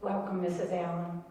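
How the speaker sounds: soft, gentle welcome; sweet doctor. Retold or imitated. Doctor holding the patient's hands, soft and tender welcome. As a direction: greet her tenderly like a kind doctor. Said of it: "He was so sweet".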